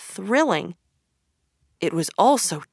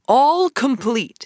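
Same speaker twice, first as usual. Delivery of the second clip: slow, pleased and higher, a bit louder; happily; 6 semitones higher, 4 dB louder, slower than usual. Acted. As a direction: savor it with delight. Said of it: "said Toad happily".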